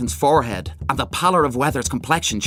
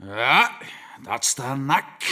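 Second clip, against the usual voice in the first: stupid familiarity; 4 dB quieter, much slower than usual. A narrator's reading. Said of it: "with stupid familiarity".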